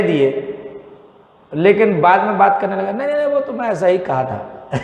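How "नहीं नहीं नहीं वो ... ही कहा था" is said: laughing denial. Acted. Ram takes back his words.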